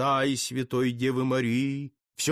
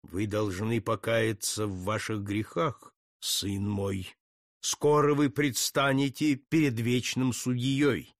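solemn priest; 4 semitones lower than usual. Acted. Priest admonishes condemned man.

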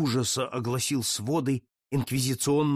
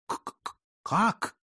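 terrified stammer; 6 semitones higher than usual. Acted. Stunned Jesuit stammering at Putilin, terrified stammer. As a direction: stutter breathlessly, then squeak the word out.

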